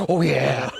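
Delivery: voicing the dog. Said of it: "One smell, and he's like".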